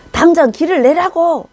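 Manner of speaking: high, loud scolding shout; thundering rebuke. Retold or imitated. Leader scolding the one behind him, loud rebuke. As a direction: roar an order at the follower. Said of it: "호통을 치는 거예요".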